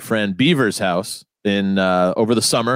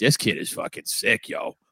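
put-on Rhode Island accent; 6 dB quieter than usual. Retelling what his older brother Nathan said at the house, imitating Nathan's Rhode Island accent. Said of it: "they all have awful Rhode Island accents".

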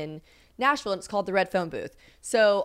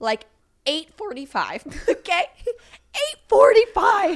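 voice cracking, much higher and louder; 10 semitones higher, 7 dB louder than usual. Telling a story about what time the costume was done, voice cracking. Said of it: "My voice is cracking".

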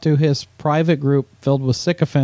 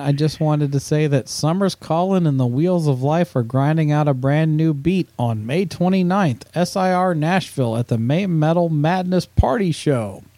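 ordinary talk

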